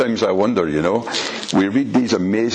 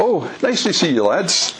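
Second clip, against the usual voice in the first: mock friendly greeting; 6 semitones higher than usual. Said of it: "John didn't exactly say to them".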